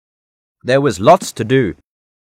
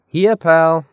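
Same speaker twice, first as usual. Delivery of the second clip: raised, louder calling voice; storybook call, higher and carrying; calling the dog; 6 semitones higher, 5 dB louder, slower than usual. A narrator's reading. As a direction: call out for a lost puppy. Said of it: "He began calling".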